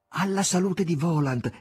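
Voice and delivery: high, loud toast; festive toast. Acted. Margherita toasting Voland, high and festive. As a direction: raise the glass gladly. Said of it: "esclamò Margherita".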